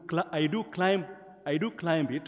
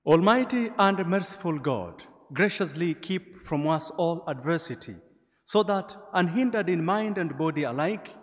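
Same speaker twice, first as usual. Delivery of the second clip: solemn public prayer; 3 semitones higher than usual. Acted. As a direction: lift the prayer to the whole church. Prays the opening collect.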